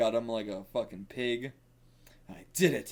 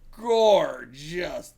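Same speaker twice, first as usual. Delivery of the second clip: excited exclamation; 3 semitones higher, 8 dB louder than usual. Real, not acted. Admiring the art.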